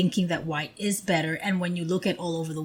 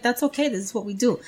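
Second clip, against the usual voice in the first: reassuring; 3 semitones higher, 3 dB quieter, faster than usual. Retold or imitated. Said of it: "you're like".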